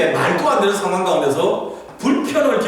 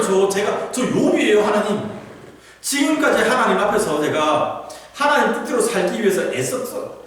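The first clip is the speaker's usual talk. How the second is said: pleading with God; 4 semitones higher than usual. Retold or imitated. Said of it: "계속 그거 하는 거예요".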